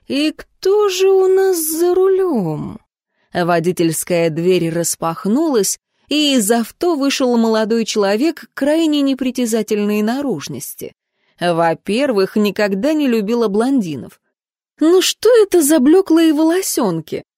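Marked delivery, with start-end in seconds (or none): 0.1-2.8 sly curious question. A narrator's reading. Heroine's sly inner question. 14.8-17.2 high, loud scoffing sneer; scornful. A narrator's reading. Heroine mocks blond hair.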